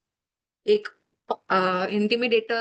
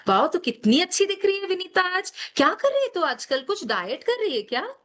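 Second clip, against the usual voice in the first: gushing praise; 5 semitones higher than usual. Retold or imitated. Acting friends praising her.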